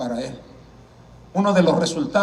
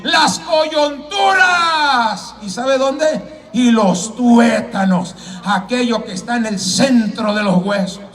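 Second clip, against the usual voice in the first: drawn-out preacher's cry, then emphatic; fervent pulpit delivery; preaching at full force; 7 semitones higher, 6 dB louder, slower than usual. Acted. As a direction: open with a long ringing shout, then settle.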